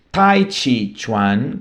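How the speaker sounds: Tai Chi Chuan said very slowly; careful pronunciation. Shown as a demonstration. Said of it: "que ainda se escreve muito assim". (Tai Chi Chuan dito muito devagar)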